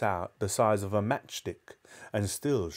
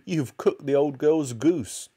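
loud, high accusation; crying out; 6 semitones higher, 5 dB louder, slower than usual. A narrator's reading. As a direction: scold him, stretching the words. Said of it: "cried Missus Cranky".

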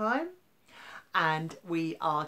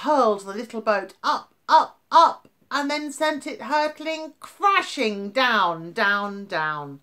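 voice rides the waves; 6 semitones higher, 9 dB louder than usual. A narrator's reading. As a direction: climb with the boat then crash down. Boat tossed up then down.

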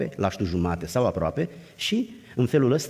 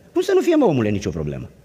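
incredulous retort; 4 dB louder than usual. Real, not acted. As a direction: throw it back, amazed. Retorts to naive idealist.

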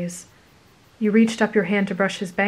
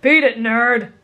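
mild mock shout; 3 semitones higher, 5 dB louder, slower than usual. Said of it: "Bakugo shouted".

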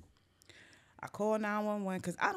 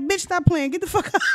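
loud, higher scolding; urgent shouting; 9 semitones higher, 12 dB louder than usual. Retold or imitated. Storyteller slapping fainted friend awake, urgent shouting. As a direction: shout to rouse someone while slapping them.

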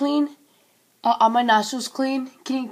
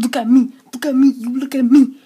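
retold challenge; 6 dB louder, faster than usual. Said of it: "I said".

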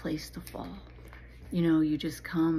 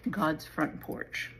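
slow title announcement; much slower than usual. Shown as a demonstration. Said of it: "this is called".

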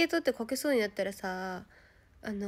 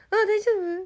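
concerned call; 11 semitones higher, 8 dB louder than usual. Retold or imitated. Asking a fallen child.

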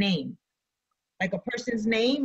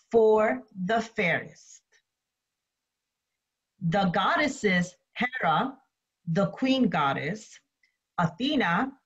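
measured read-aloud with pauses between phrases; slow story reading. Real, not acted. Teacher reads myth while students draw notes, slow story reading. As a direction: read it slowly, leaving room for note-taking. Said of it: "I'm going to read the story slowly".

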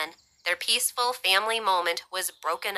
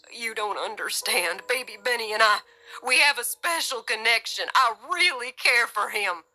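tearful pleading; 4 semitones higher than usual. A narrator's reading. Gus pleading about the baby, tearful. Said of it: "Real tears were flowing down Gus's face".

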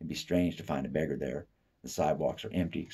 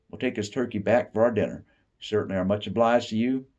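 hearty thanks; 5 semitones higher, 6 dB louder than usual. Acted. Ruler thanks God grandly.

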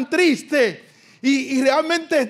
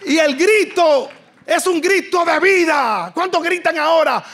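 higher, stirring preacher's call; rousing call; 4 semitones higher than usual. Real, not acted. Preacher urges the congregation to cry out, rousing. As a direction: fire the crowd up to shout.

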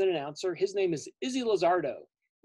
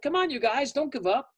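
frustrated Blossom; 4 semitones higher than usual. Acted. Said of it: "And she's like".

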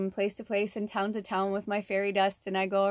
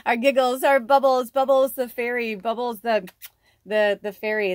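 excited; 4 semitones higher, 10 dB louder than usual. Real, not acted. Excitedly naming fairy energy.

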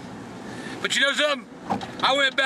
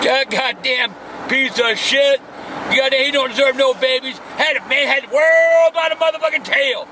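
angry rant; 5 dB louder than usual. Acted. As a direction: vent with full contempt. Word association rant on celebrity.

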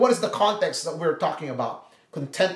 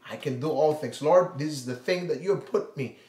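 gentle prayer; 3 semitones lower than usual. Pretend. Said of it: "maybe you are in need".

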